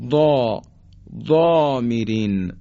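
ضا then ضامرین, thick dark ض with long rounded vowel; heavy tafkhim. Shown as a demonstration. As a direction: slowly show a full, backed ضا.

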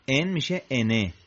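"en" turning into انه, "ene"; tanween change. Shown as a demonstration. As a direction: open "en" out into "e-ne".

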